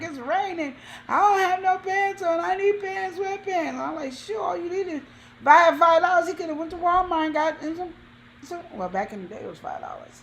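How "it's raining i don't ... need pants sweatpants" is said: put-on high, desperate yell. Telling a listener about a man who needed pants, imitating him yelling. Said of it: "he was yelling for a pair of pants".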